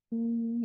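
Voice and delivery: sustained, even hum before speaking; healing hum. Real, not acted. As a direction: hold a simple humming tone. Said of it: "with some sound".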